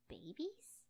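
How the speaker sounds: whispered in dread; shocked whispered question; horrified whisper. Acted. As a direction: breathe the word in horror. Horrified realisation of dead babies.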